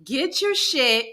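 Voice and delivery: slow, loud furious order to get out; angry yell. Retold or imitated. Manager throwing the employee out, furious slow yell. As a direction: spit each word, slow and loud.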